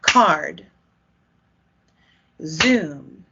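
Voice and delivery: one clipped beat on Card; teacher modelling the beat; word said in rhythm. Shown as a demonstration. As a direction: say Card as a single quarter note. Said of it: "like this".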